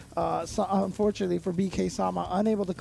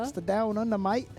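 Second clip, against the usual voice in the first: hammy fake Australian, r's dropped; terrible Australian accent. Commentator joking about Down Under, terrible Australian accent. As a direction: put on a bad Australian accent. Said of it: "this terrible Australian accent".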